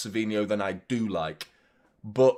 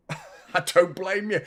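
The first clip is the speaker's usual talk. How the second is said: chuckling through the words, slow; laughing; 6 semitones higher, slower than usual. Real, not acted. Streamer mocking his own like request, laughing. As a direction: laugh it off wryly.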